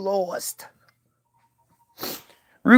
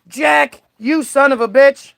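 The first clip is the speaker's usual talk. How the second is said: higher, hammed-up shocked cop; mock cop yell; 5 semitones higher, 3 dB louder than usual. Retelling the cop calling out to Ruby, mock shocked yell. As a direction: throw out the name like a startled cop. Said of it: "the cop that was there was like".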